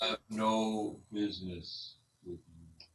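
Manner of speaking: very slow, cold refusal from an ancient tree; old tree turning the druid away; dismissive tree spirit. Acted. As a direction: drag the words out like creaking timber.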